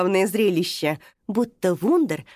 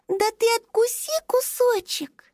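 gentle coaxing; 12 semitones higher than usual. Acted. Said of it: "ласково попросила малышка".

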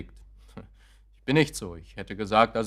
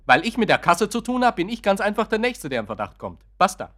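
exasperated; 5 semitones higher, 3 dB louder than usual. Acted. Exasperated explanation to wife.

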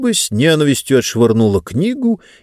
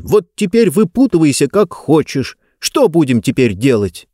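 сердитый крик; 4 semitones higher than usual. Acted. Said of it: "закричал он".

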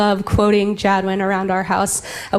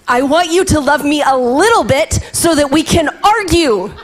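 laughing; 6 semitones higher, 4 dB louder than usual. Retold or imitated. Son's cheeky reply quoted.

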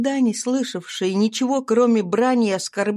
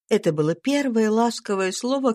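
plain reading voice

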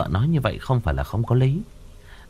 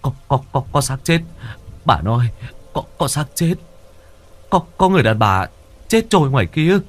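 panicked stammer; 4 semitones higher than usual. Acted. Husband panicking after seeing corpse.

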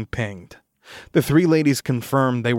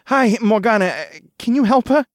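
louder, higher, anxious plea; pleading; 11 semitones higher, 6 dB louder than usual. Acted. Roommate begs the sorceress to save his girlfriend, pleading. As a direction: beg for help for her. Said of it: "Frank asked with a pleading face".

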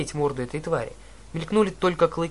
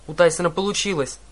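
exclaiming; 3 semitones higher, 4 dB louder than usual. Acted. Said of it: "воскликнула Аннабет".

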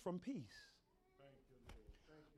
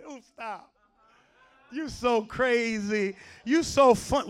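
a hint of coy, drawn-out protest; lightly voiced flattered girl; 12 dB louder, slower than usual. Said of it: "she's sitting there saying".

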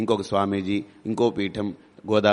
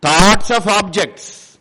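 every word drawn out slowly and loudly; slow emphatic stress; 6 semitones higher, 7 dB louder, much slower than usual. Shown as a demonstration. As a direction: Thoughts of objects, each word stretched and hammered. Emphatic English phrase in discourse. (ప్రతి పదం నెమ్మదిగా గట్టిగా ఒత్తి)

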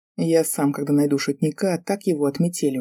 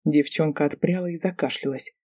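usual speaking voice

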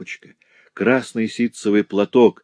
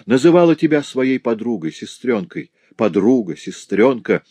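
contemptuous, raised voice; scornful scolding; 4 semitones higher than usual. Acted. Farm mistress scorns the girl, raised contemptuous scolding. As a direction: scold her as vile scum. Madame Dubreuil scolds Marie.

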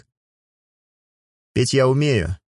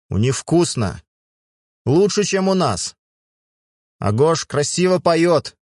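tipsy; 8 semitones higher, slower than usual. Acted. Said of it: "пьяно хихикнула".

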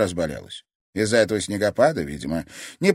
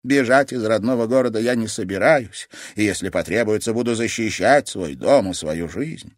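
solemn grandmother; 4 semitones higher, 5 dB louder than usual. Acted. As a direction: make her think this is goodbye.

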